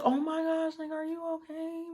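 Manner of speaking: high worried whisper. Retold or imitated. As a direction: whisper it in alarm, barely audible. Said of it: "I'm, like, whispering".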